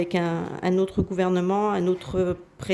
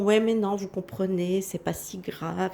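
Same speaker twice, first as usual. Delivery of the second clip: mildly mocking brush-off, trailing softer; mock minimising; 3 dB quieter than usual. Mimicking the media on Joe le bidon, mock minimising. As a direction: play it down, easing off quietly at the end. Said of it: "ils essayent un petit peu de minimiser".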